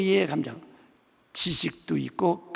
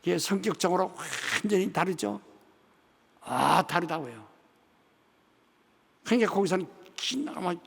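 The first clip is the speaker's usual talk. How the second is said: ordinary talk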